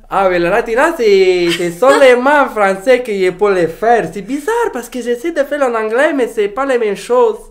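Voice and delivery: high, loud Latina woman in French; high bright Latina lady voice; Latina character voice. Acted. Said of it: "I can only do that voice in French".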